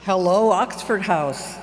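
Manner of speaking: sultry sexy-voice greeting. Pretend. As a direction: purr it in a sexy voice. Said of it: "That was my sexy voice".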